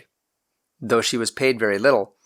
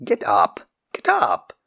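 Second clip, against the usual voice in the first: irritable bark; slower than usual. A narrator's reading. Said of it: "Lord Cobham barked irritably".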